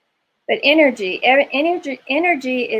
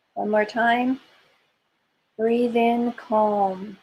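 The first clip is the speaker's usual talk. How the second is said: soothing massage murmur. Acted. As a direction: calmly guide each breath, unhurried. Leads a breathing exercise.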